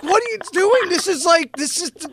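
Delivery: high-pitched mock protest; high, exasperated retelling; retold exasperation. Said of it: "And I'm like".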